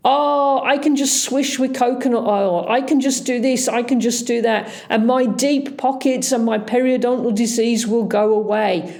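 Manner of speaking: mocking patient excuse. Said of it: "I am sick of hearing".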